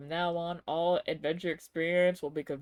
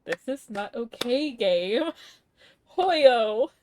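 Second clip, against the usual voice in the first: upset outcry; 4 semitones higher, 10 dB louder, slower than usual. Real, not acted. Streamer upset at sad story.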